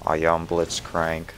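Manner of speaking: slow, stiff robot voice; imitating a robot, slowly. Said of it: "I'm like".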